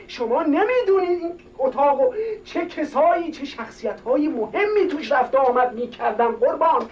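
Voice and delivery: pleading on the edge of tears, rising high; tearful plea. Acted. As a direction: beg with a choked voice. Servant pleading over the room. (التماس با بغض)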